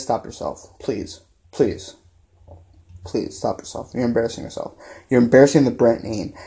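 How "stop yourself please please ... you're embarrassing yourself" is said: a soft whispered plea, stop yourself; hushed plea. Real, not acted. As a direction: drop to a near-whisper, breathy and soft. Pleading with the analyst to stop.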